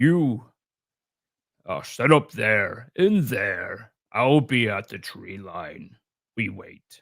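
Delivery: deep, big voice of a towering creature. Speaker describes a voice from something taller than you, deep, large creature voice. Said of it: "a deep, large voice coming from something taller than you".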